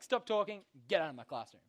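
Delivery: a hint of a stern teacher's order; strict teacher. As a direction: snap it like a teacher ejecting a kid. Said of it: "The teacher's just like".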